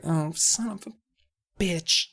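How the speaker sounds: mock dejection, with a pause before the last word; resigned cursing. Boy's resigned curse after outburst.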